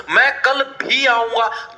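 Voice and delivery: मैं कल भी आऊंगा read slowly, each word weighed; slow emphatic reading. Shown as a demonstration. Teacher reads the sentence to students, slowly and emphatically. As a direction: lean on the words of मैं कल भी आऊंगा. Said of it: "जोर डाले".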